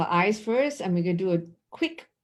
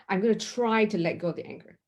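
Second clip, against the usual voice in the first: quick mock trying; 2 semitones higher, faster than usual. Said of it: "Instead of saying".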